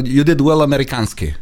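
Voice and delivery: mock Russian or Middle Eastern accent; foreign-accented English. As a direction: imitate a movie villain's foreign-accented English. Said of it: "με την προφορά της χώρας". (ξενική προφορά στα αγγλικά, κοροϊδευτικά)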